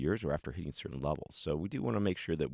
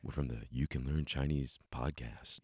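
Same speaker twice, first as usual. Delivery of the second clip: late night radio dj; 4 semitones lower, 4 dB quieter than usual. Pretend. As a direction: purr it like a late night host. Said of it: "a late night D J voice".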